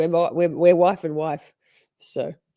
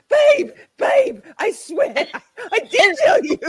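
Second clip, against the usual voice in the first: much higher and louder, pleading babe babe; pleading wife; 7 dB louder than usual. Retold or imitated. Wife insisting to Lisa she did tell her, high pleading. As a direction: beg her to believe you, squealing. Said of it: "She's like".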